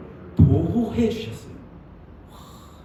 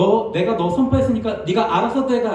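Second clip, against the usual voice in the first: careless dismissal; 5 semitones higher, 6 dB louder than usual. Retold or imitated. Wrong version of God's word.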